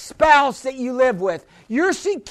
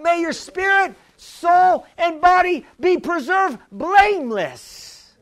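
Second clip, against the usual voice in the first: raised, slow, ringing blessing over the crowd; fervent blessing; 4 semitones higher than usual. Acted. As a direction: pronounce it like a high benediction. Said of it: "I pray that prayer over you".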